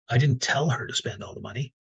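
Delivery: "tell" stressed in the sentence. Shown as a demonstration. The third person on stage stressing "tell". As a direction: punch the word "tell".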